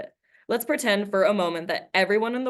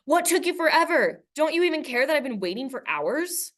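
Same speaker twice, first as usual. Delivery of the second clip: much higher, a mild mock yell; retold scream at mom; 8 semitones higher than usual. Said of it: "screaming at my mom".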